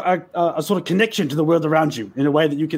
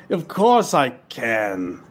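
reluctant reply; 4 semitones lower, much slower than usual. Acted. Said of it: "Reggie's speechless, like".

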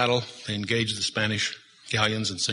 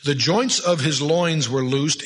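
savoured King James phrase; 2 semitones higher, 3 dB louder, slower than usual. Shown as a demonstration. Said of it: "you have to read it in the King James".

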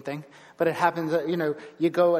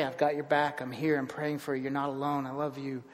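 supportive voices; 2 semitones lower, 3 dB quieter than usual. Retold or imitated. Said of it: "what do the rest say".

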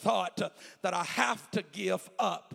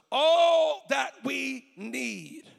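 high, loud, long-drawn cry; emphatic preaching shout; 6 semitones higher, 7 dB louder, much slower than usual. Retold or imitated. Doctors asking mother for permission, preached as a drawn-out shout. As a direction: stretch the words out into a big shout.

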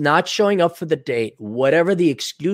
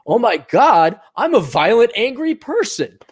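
mock panic; 7 semitones higher, 4 dB louder than usual. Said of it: "now it's like".

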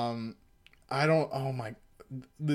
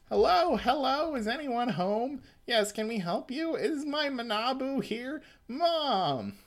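pitched high, calling out at the door; high calling mom; 10 semitones higher than usual. Acted. Mom calling at the door for her son, high and sing-song. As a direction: call out like a fussy mom.

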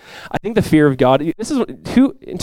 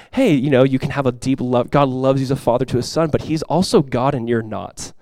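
reassuring dad; 2 semitones lower, 4 dB quieter than usual. Retold or imitated. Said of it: "pull me aside later and be like".

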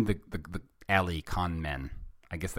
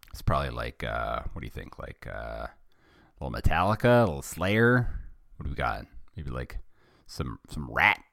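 ordinary delivery

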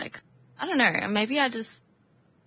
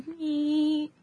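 high little mechanical "meep"; vacuum meep; 6 semitones higher, 4 dB quieter than usual. Retold or imitated. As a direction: imitate the vacuum sucking a bug up. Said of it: "I go my vacuum, like".

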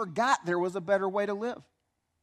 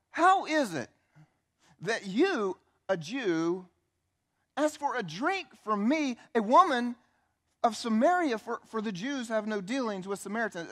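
smart mouth; 3 semitones higher than usual. Acted. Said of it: "smart mouth tone to what she's saying".

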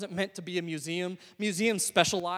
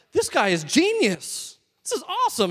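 put-on kid excitement; 9 semitones higher, 6 dB louder than usual. Boy watching the card-throwing ninja on TV, excited. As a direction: sound like a wowed kid. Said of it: "I'm like".

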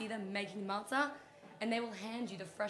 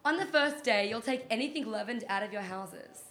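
dramatic reading; 5 dB louder than usual. Pretend. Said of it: "It's my dramatic reading".

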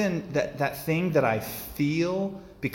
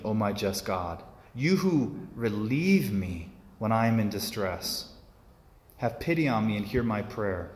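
prayerful psalm reading. Acted. Priest reading the psalm to the congregation, solemn and prayerful. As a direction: linger on each line like a prayer.

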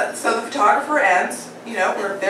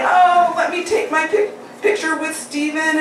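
higher, excited imitation; eager crowd member; 6 semitones higher than usual. People in the crowd wanting a picture, imitated excitement. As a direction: gush as if begging for a photo.

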